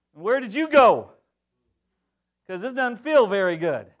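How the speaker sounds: a hurt believer crying out at God; mock complaint to God. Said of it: "it was like".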